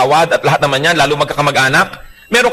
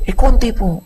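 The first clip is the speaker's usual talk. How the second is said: meek mock voice; 6 semitones higher than usual. Wife answering meekly.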